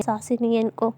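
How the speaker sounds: whispered grumble under her breath; a softly whispered mutter of annoyance; angry whisper. Acted. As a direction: hiss it angrily to herself. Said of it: "और ज़्यादा गुस्सा कर रही होती है".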